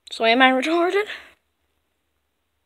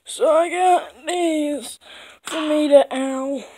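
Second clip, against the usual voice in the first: slow, higher character voice; higher new voice; 3 semitones higher, 4 dB louder, slower than usual. Acted. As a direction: lift the voice, drawn out. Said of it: "clears throat, redoes line".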